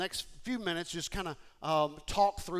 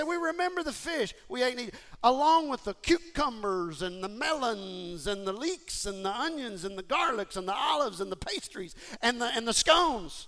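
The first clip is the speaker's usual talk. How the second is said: exaggerated whining list; 4 semitones higher than usual. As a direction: ham up the grocery list of longing. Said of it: "I'm just kinda amplifying it a little bit".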